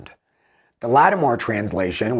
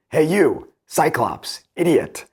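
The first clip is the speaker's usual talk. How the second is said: jeering taunt; 5 semitones higher, slower than usual. Acted. Odysseus jeering at the Cyclops from the ship, a raised mock taunt. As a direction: hurl the insult up at him. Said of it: "I jeered back".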